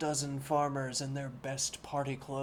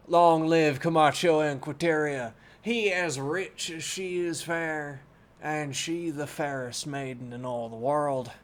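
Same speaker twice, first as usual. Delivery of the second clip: crowd cheer; 5 dB louder than usual. Shown as a demonstration. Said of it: "Or we could keep the southern accent".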